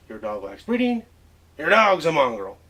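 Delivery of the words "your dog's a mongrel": louder folksy Western version; Western drawl. Shown as a demonstration. Professor contrasting standard English with Western speech, folksy. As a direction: say it like a plain-spoken cowboy. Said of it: "You see the difference?".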